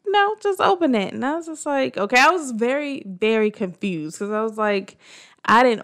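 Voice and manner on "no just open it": high-pitched imitation of an impatient partner; lightly voiced partner, pitched up; imitating partner's urging. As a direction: quote him urging you on, voice lifted. Retells partner urging her on.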